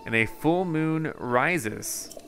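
game researcher, earnest explanation with lilting emphasis; lightly voiced absorbed researcher. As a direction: explain a mystery like a lightly acted scholar.

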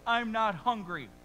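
mock pouting kid refusing dinner; sulky child voice. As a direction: whine it like a sulking little boy. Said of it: "he starts saying this".

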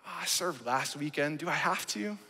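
reluctant whine. Retold or imitated. Mock reluctant churchgoer excuse.

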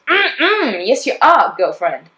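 high sassy hype voice; sassy girlfriend. Retold or imitated. Inner voice agreeing with her, sassy and high. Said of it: "And the voice goes".

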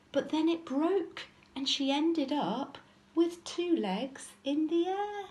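measured storybook reading; lilting narration for small children; children's story narration. A narrator's reading. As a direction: tell it as a picture-book story. Reads story aloud to children.

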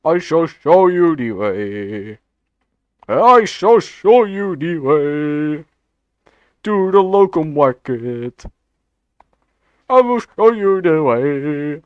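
slow drawn-out chant of the meme line; Knuckles meme voice. Acted. Gamer chanting the meme line to teammates, slow and drawn-out. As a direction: stretch every word like a tribal chant.

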